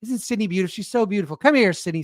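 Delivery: lightly voiced Trump, just a hint; playful half-hearted Trump imitation, riffing; light mock Trump gushing over a star; Trump impression. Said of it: "that's how Trump would talk".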